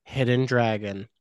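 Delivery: hammed-up ringmaster announcement; grand entrance announcement. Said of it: "give us the plot".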